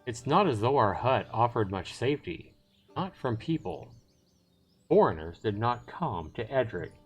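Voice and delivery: measured storytelling with deliberate pauses; story narration. Acted. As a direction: read the story out dramatically, phrase by phrase. Reads the story narration aloud.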